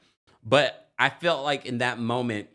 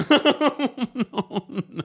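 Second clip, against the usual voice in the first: high, loud laughing protest; 12 semitones higher, 7 dB louder than usual. Real, not acted. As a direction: laugh out the denial.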